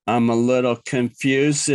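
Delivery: goofy, deliberate echo of being confused; mock confusion. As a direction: say it as a daft cartoon, ending in a chuckle. Repeats it as a goofy joke.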